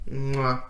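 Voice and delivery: soft, low "mwah"; kiss sound. Shown as a demonstration. Reviewer praising the war episodes with a soft kiss sound. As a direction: smack a quiet chef's kiss.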